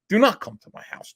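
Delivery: hammed-up frightened begging; mock panic. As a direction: mimic a panicking man begging. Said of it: "Vito was actually panicking".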